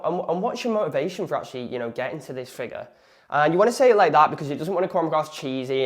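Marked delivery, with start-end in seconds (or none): 0.0-2.9 a real question, not a script read; doctor's questioning tone. Shown as a demonstration. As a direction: ask it like a doctor questioning a patient. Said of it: "as if a doctor would speak to you".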